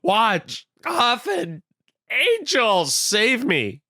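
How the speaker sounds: high, frantic cry for help from the landlord; panicked mock scream. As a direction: yell it like a man terrified in the dark. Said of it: "he screams out".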